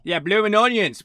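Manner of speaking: put-on Australian, opening loud then slowing; Australian accent. Showing off to the co-host after praise, Australian accent. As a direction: play a blunt Australian debunking beer myths. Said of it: "It's hard to do an Australian accent".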